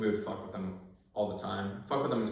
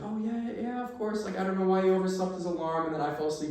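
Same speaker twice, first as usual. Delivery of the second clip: much higher, mock-sweet imitation of the wife; retelling how the wife answered at the door, in a much higher imitating voice; wife's voice; 10 semitones higher than usual. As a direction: play the wife apologising in a higher voice. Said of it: "she's like".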